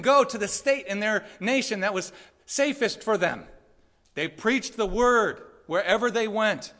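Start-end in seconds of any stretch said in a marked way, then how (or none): 4.1-6.7 slow, weighty "They preached the word wherever they went"; slow emphatic. Acted. Preacher driving the point home to Californians, slow and weighty. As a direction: lean on every word slowly.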